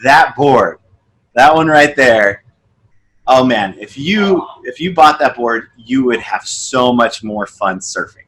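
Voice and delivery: playful mock of a pushy salesman; eager salesman pitch. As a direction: talk the board up like you can't wait to sell it. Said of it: "And he's like".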